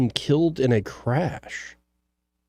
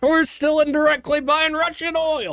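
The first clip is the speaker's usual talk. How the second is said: high mock voice; 14 semitones higher than usual. Host mocking U.S. war policy, high silly voice. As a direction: silly voice pitched way up.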